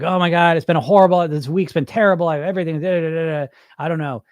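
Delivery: a hammed-up panicked caller; mock freaked-out client. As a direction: play the client who's falling apart. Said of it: "they're kind of freaking out".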